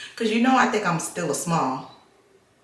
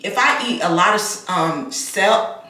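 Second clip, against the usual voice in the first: wearing a retainer. Real, not acted. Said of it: "I've been putting my retainers in".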